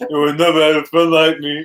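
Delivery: genie voice. Pretend. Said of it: "why did you say it like the genie".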